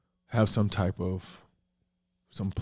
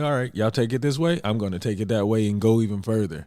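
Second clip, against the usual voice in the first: lively, raised-pitch imitation of defiance; mock defiance; 3 semitones higher, 4 dB louder, faster than usual. Uncle voicing the boy who runs with it, mock defiant. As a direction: play a kid digging in, a bit higher. Acting out defiant boy's reaction.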